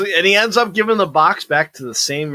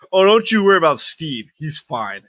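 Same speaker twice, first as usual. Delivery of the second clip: dismissive cops. Retold or imitated. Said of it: "they're just like".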